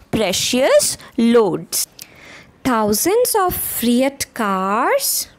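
sing-song rhythmic poem reading, slowing at the end; poem recitation. Shown as a demonstration. Teacher reciting to young pupils, rhythmic and lilting. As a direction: chant each line with a lift for the class.

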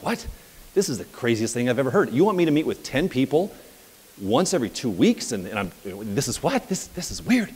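mock-incredulous objection, pitch jumping on the questions; lightly acted bewildered protest; retold disbelief. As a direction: imitate a baffled employee balking at an order. Stunned new hire objects to boss's order.

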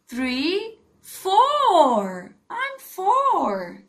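bright, sing-song classroom drill; kindergarten teacher voice. Acted. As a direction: coax small children to repeat. Teacher drilling young pupils.

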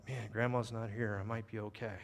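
low, hushed private thought; thinking to himself. Acted. Boy reassuring himself after killing the duck, quietly thinking aloud. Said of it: "he's looking around and thought".

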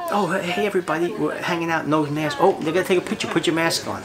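hammed-up, high-pitched parody. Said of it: "A O C".

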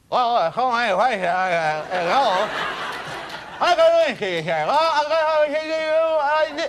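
a hint of a breathy Lewinsky voice; Monica Lewinsky. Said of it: "If I were Monica Lewinsky".

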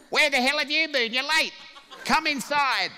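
put-on high, loud scolding old mother; scolding mum. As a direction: shriek it like a cross mum. Mum scolding late son.

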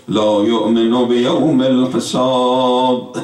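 slow, measured Arabic recitation; lamenting preacher reciting the Imam's plea slowly; recited Arabic sermon. Acted. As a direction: intone the Imam's words slowly and solemnly.

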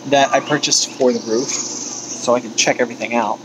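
talking while standing up a ladder; speaking from the top rungs of a ladder. Real, not acted. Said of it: "I'm on the ladder".

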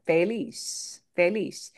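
feliz with the end punched; feliz, second syllable carrying the weight; stress on LIZ. Shown as a demonstration. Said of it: "we punch the end more".

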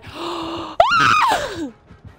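sharp loud gasp, high; a sudden shocked intake of breath; startled gasp. Real, not acted. Player jumps at a scare, loud startled gasp.

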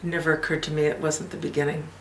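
soft, unhurried reverie with long pauses; reflective mother, wistful reminiscence. Acted. A mother tells her child of her happiest moment, wistful and hushed. Performs monologue from the Hours.

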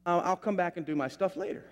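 politely excusing yourself; retold polite nurse. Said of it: "very polite".

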